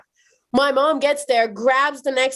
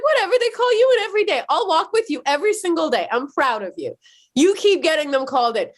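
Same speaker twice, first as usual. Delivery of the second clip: excited mom; 5 semitones higher, faster than usual. Retold or imitated. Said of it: "She's like".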